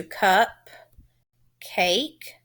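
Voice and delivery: "cup, cake" with a clear gap between syllables; split into syllables. Shown as a demonstration. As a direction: separate cup... cake, one syllable at a time. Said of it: "I would separate it into".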